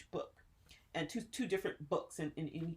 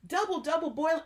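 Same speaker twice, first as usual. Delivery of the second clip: witch voice; 10 semitones higher, 10 dB louder than usual. Retold or imitated. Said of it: "Were you one of the witches".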